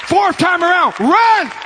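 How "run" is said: high mock preacher's shout; retold command. Camp preacher ordering another lap, high mock shout. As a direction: shout the order, imitating him.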